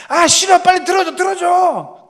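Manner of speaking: dad imitating a child's shouted refusal; screaming little girl. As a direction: shriek no like a stubborn child. Youngest screaming demand.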